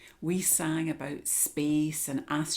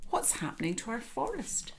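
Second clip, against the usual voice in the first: worried animals; 6 semitones higher, faster than usual. Acted. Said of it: "they all cried".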